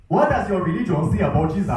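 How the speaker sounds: put-on a student hamming up an Afghan king's accent. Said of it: "what's with the accent?".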